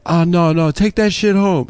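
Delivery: mock a neighbour refusing, slowing into the order; pissed-off neighbour. Neighbour orders dog owner to take it home, mock pissed-off. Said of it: "He was pissed".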